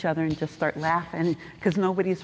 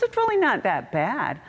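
optimistic JP; 7 semitones higher than usual. Retold or imitated. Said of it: "He goes".

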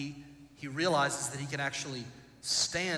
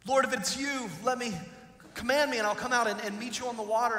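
eager Peter; 5 semitones higher, faster than usual. Retold or imitated. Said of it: "imagine what that must have been like".

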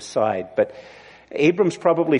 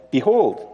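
"Behold" pitched up with emphasis; emphatic; 5 semitones higher than usual. Acted. Abram answering God back in the scripture, "Behold" said emphatically. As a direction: lean firmly on "Behold". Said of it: "in Hebrew it's emphatic".

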